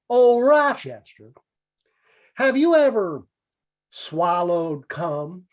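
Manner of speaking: drawn-out radio comedian; Jack Benny impression. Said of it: "He goes".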